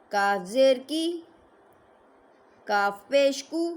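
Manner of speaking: slow spelled syllables, heavy letters thick; slow spelling drill. Shown as a demonstration. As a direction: chant letter and vowel slowly for children. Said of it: "ज़बर बता देंगे".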